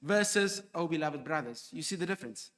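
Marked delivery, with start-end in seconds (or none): 0.8-1.7 gentle, fond greeting; tender address to brothers; loving address. Shown as a demonstration. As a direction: speak to them as dear family. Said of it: "rebuke versus a loving address".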